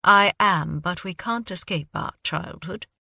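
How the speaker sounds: put-on light British accent, wry; hint of British accent, answering about his roots. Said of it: "Your accent".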